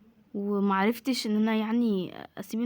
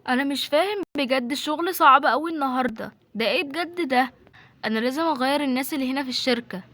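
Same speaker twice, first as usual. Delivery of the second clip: raised, agitated grumbling; frustrated boss; 3 semitones higher, 5 dB louder than usual. Acted. Boss grumbles about staff at the company, frustrated and loud. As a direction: complain forcefully about the workload.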